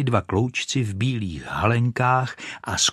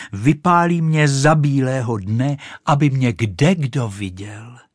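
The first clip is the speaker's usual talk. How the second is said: louder, delighted exclaim; 5 semitones higher, 5 dB louder than usual. Acted. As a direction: crow with pleasure, lightly. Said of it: "zvolala Raketa". (mírně nadšené zvolání)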